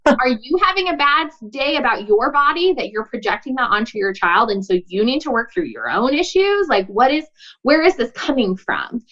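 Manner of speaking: lightly acted probing question, lifted in pitch; genuinely curious. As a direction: wonder aloud, as if phoning someone's mom to ask. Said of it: "I'm genuinely curious".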